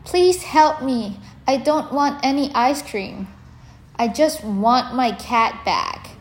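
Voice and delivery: put-on high, loud pleading child; crying plea. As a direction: beg through tears, high and loud. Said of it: "Tommy cried louder".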